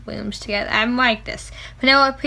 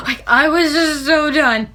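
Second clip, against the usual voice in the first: fangirl gasp; 3 semitones higher than usual. Real, not acted. Fan swooning over the kiss to viewers, breathy. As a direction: gasp then breathy, overwhelmed. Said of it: "fangirl attack".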